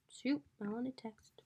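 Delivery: softly whispered to herself; a slow private whisper; muttered whisper. Real, not acted. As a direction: whisper it under your breath, slowly. Muttering to self at computer.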